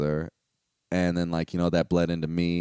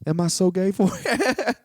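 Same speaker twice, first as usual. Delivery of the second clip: mock whine; 11 semitones higher, 4 dB louder, slower than usual. Real, not acted. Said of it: "self-mocking question".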